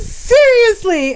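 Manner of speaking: high, drawn-out incredulous question; mock disbelief. Reacting to an aunt agreeing, mock drawn-out disbelief.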